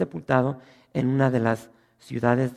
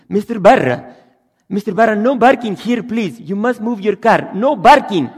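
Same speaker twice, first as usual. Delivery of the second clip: put-on loud high Arab-accented English, b for p; Arab accent, laughing at the end; 6 semitones higher, 11 dB louder, slower than usual. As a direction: shout it like an Arab parking attendant. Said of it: "los árabes, no pueden pronunciar la P".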